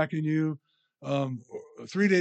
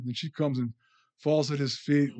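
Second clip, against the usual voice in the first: normal talking voice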